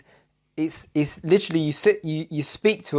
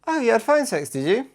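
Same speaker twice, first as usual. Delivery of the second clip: higher, sarcastic pointed question; hammed-up jealous jab; sarcastic accusation; 9 semitones higher than usual. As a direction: needle her with a sneer. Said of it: "go a bit like".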